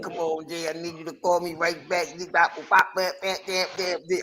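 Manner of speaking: retold phone plea. Quotes Bone's hurried phone plea.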